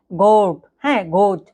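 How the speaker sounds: "গোট" opening on a throaty German R; guttural German R at the start of "গোট"; throat-scraped R. Shown as a demonstration. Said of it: "গলায় ঘষা দিয়ে উচ্চারিত হয়".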